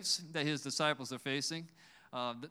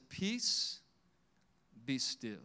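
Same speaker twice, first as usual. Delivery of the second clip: mildly calm command, raised then dropping low; calm rebuke; 5 semitones lower, much slower than usual. Retold or imitated. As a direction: say it unhurried, long pause, softening at the end. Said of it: "he's calm".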